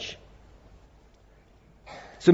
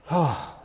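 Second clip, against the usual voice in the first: dejected sigh; 5 dB quieter than usual. Pretend. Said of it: "I'm depressed. I'm sad".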